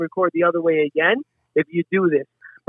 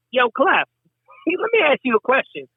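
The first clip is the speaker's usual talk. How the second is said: lightly voiced comedian impression, pitched up; Dave Chappelle; 6 semitones higher than usual. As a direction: imitate the comedian's funny way of asking. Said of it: "Just from his voice asking that question".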